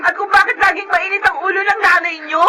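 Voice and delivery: crying shout; tearful accusation. Acted. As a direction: push back through tears.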